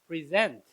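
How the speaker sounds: 동사 present, 뒤 음절에 강세; verb stress present. Shown as a demonstration. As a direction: present with the stress on the second syllable, preSENT. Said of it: "강세를 뒤에 두고 present라고 발음하면".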